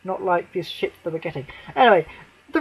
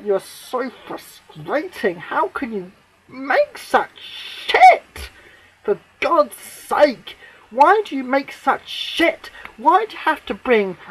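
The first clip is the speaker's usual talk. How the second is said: slow, drawn-out exasperation; exasperated; 5 semitones higher, slower than usual. Real, not acted. Fan pleading with the writer, slow and exasperated.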